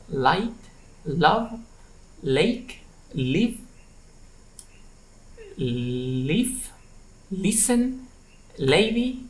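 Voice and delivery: word list "Light" to "leather", clear initial L; clear L drill. Shown as a demonstration. Teacher models words for learners to repeat, clear L. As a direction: say each word separately, clear L at the front as in "Light". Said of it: "for clear L, repeat please".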